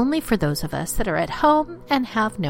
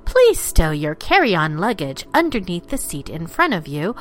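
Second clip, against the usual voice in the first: lightly played cabin announcement; like a polite in-flight announcement; flight attendant. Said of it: "ladies and gentlemen, the captain".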